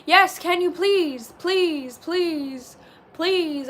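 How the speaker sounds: drawn-out, eager begging; plead, repeating each please. Real, not acted. Streamer begging a viewer for Raising Cane's, pleading.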